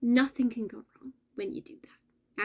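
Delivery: hushed reassuring whisper. Real, not acted. Reassuring viewers about soul alignment, whispered. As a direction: whisper it like a promise.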